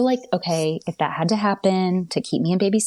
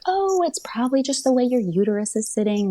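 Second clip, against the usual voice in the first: easygoing reassurance; 2 semitones higher than usual. Retold or imitated. Own OB explaining away a measurement, retold reassuringly. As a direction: play it down, softening at the end. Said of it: "totally two different demeanors".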